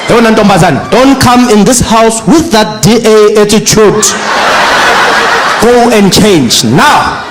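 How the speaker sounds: slow, firm father's last order; stern dad. Retold or imitated. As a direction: lay down the final word.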